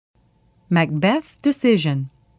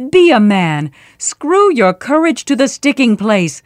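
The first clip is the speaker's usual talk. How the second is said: scornful taunting; 4 dB louder than usual. Acted. Wife scorning husband's cowardice.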